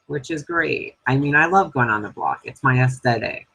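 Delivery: dry mock delight over bad news; sarcastic. Real, not acted. Fuming houseguest fakes delight at going on the block. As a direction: say it as if thrilled when you're not. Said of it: "Uh, I'm fucking mad".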